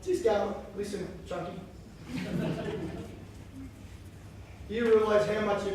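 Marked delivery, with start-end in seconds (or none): 0.0-1.5 lightly voiced coaxing glutton, louder; a hint of a sweet-talking mate; Fat Wayne. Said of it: "Fat Wayne says".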